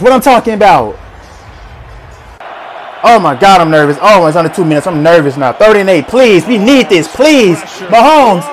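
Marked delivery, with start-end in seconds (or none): 3.0-5.5 low, worried undertone; real late-game nerves; nervous. Real, not acted. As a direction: fret in a low voice as time runs out.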